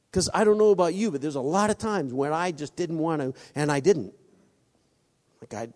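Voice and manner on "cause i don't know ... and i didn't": loud preaching. Acted. Preaching confession loudly.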